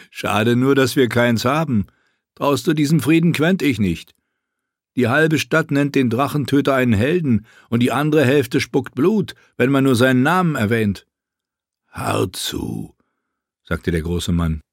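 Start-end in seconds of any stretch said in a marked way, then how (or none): 0.1-11.1 put-on somewhat higher, wary older friend; a lightly voiced friend, half teasing, half warning; Garrus voice. Garrus warns Quentin, teasing. 11.9-13.0 much lower, gruff mangled name; gruff big man. Acted.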